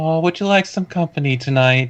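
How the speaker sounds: put-on woman's voice. Acting out a line voiced by a woman in a story: put-on woman's voice. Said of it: "in a woman's voice".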